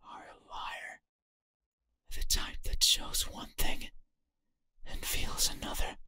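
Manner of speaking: eerie unvoiced whisper; whispering entity. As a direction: breathe it like a ghost.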